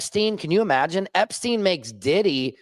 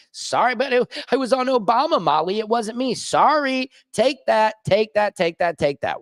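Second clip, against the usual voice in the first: higher, mocking taunt; 5 semitones higher than usual. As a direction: rub it in playfully. Acted scene, mock voices.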